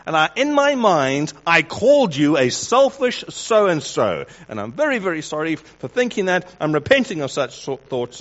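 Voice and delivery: overly earnest confession with a barb; mock passive-aggressive apology.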